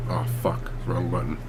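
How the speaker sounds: hushed muttered swear; whispered curse. Real, not acted. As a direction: whisper the curse under your breath. Muttered curse after a mistake.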